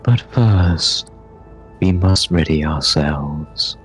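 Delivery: slow, measured character voice; lightly voiced solemn guide, drawn out; urging Navigator figure. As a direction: urge them on slowly and formally. Game master voices Navigator.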